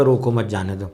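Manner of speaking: no stop after روکو, straight through to جانے دو; continuous phrasing. Shown as a demonstration. Teacher demonstrating the sentence without a stop, continuous phrasing. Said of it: "continuous کر لیں".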